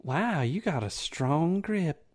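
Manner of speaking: flirting woman. Acted. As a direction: draw it out, impressed and coy. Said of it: "she's like".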